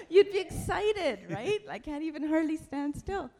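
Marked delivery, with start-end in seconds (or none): 0.0-1.6 Irish accent. Shown as a demonstration. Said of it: "I'm putting on an Irish accent".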